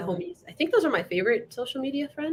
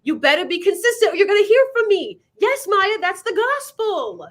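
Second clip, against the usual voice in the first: mock sermon; 7 semitones higher, 6 dB louder than usual. Preaching the rule at him.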